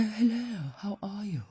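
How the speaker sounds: a hint of a well-spoken donkey; lightly plummy donkey greeting; lightly voiced posh donkey saying hello. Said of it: "They're very well spoken".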